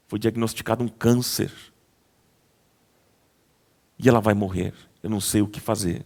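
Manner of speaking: low, soft, intimate retelling of the pizzeria story; hushed storytelling. A narrator's reading. Pastor telling the congregation a moving story, hushed and low.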